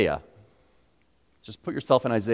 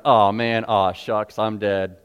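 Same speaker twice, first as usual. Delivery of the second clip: mild shrug; 5 dB louder, slower than usual. Retold or imitated. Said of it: "And not like a".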